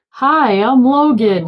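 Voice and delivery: a touch of awkward cheer; Logan. Retold or imitated. Retelling the buddy's goodbye.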